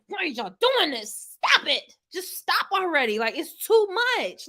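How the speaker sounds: high, pleading mock panic; frantic pleading. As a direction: beg them to stop, still shaken. Retold pleading after scare on bus.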